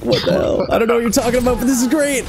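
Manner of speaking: high, delighted confusion; amused disbelief. Retold or imitated. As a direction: gush it like you love the chaos. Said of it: "I was like".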